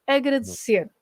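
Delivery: "agradecer" stressed on its last syllable; stress on the end. Shown as a demonstration. Teacher explaining verbs ending in R, "agradecer" with final stress. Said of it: "is stressed at the end".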